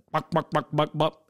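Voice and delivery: quick spoken knocks on a car window; imitated knocking. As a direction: knock knock sound said in the mouth. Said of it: "I hear this knock on the window".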